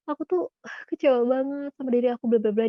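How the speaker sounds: imitated crying. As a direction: lightly mimic someone upset and crying. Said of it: "dia sambil nangis". (pura-pura curhat sambil menangis, nada agak tinggi)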